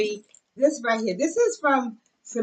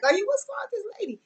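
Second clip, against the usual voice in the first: imitating shoppers; 11 semitones higher, faster than usual. Imitating shoppers staring at her.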